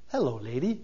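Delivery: lightly voiced gentle giant, smiling; a hint of a happy simple giant, beaming; Andre the Giant. Preacher imitating the giant greeting the princess, smiling. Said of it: "he just gets this big smile on his face".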